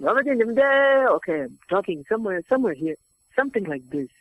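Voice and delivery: put-on improvised African accent. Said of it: "So immediately I went".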